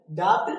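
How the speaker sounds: डाउट with B voiced before T; डाउट as "dau-b-t"; wrong pronunciation. Shown as a demonstration. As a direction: say a "b" inside डाउट. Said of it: "डाउट नहीं".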